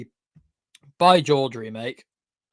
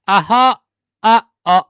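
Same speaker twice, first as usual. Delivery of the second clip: surprised; 7 semitones higher, 13 dB louder than usual. Real, not acted. Startled by unmuting.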